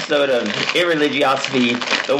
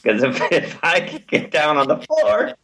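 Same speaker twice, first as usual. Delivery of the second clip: movie quote voice; 4 semitones higher than usual. Retold or imitated. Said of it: "classic movie line".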